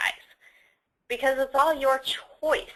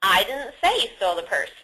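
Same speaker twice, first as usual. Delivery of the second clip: "I" stressed, implying another person said it; 2 semitones lower, faster than usual. Shown as a demonstration. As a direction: lift "I" above the rest of the sentence. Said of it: "but someone else".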